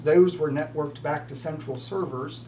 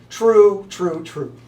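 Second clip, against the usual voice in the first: emphatic true; 3 semitones higher, 7 dB louder, much slower than usual. Real, not acted. Emphatic agreement with quiz answer.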